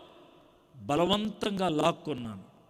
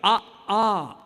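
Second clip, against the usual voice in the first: mock child's shout; 3 semitones higher, 6 dB louder than usual. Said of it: "అని అరుస్తూ రాస్తుంటే".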